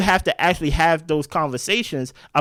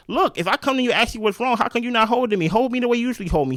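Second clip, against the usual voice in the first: higher, mock-pleading girlfriend voice, speeding up at the end; Huda pleading; 6 semitones higher, faster than usual. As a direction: whine for the hug. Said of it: "And she's like".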